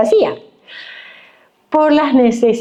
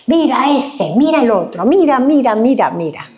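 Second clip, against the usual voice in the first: mock judging gossip; 4 semitones higher than usual. Juzgando a otros, parodiado.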